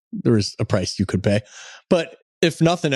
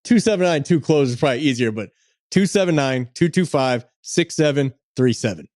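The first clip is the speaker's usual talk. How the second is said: infomercial voice; 2 semitones higher than usual. Acted. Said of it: "You sound like an infomercial".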